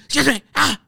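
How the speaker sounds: hammed-up loud whisper. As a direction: play a flustered crew member shushing you. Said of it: "So they just whisper loud".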